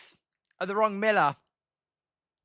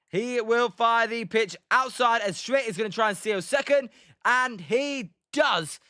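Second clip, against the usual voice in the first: suspenseful baseball call, stretching the key moment; play-by-play. Acted. Calling Schmidt stealing second for viewers, play-by-play. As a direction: build to the steal, then report it. Live play-by-play of stolen base.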